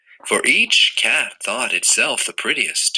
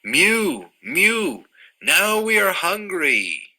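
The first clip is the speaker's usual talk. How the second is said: mewing cats; 9 semitones higher, slower than usual. Acted. Cats speaking in story.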